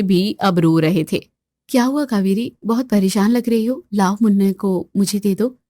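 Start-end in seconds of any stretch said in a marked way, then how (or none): 1.7-5.6 reach out kindly to her; gentle concern. Acted. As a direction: Suman soothing tired Kaveri. Suman gently offers help.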